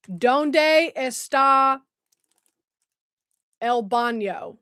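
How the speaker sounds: very slow, badly faked Spanish accent; mock Spanish accent. Shown as a demonstration. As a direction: draw out each word in a poor Spanish accent. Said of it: "Spanish accent, my Hispanic accent".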